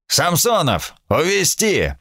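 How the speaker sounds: sharp, high-pitched command; barked order. A narrator's reading. Admiral orders Samsonov to take Sam away, barked command. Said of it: "рявкнул адмирал".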